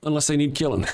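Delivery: high mock voice; mocking answer. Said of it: "When you say that".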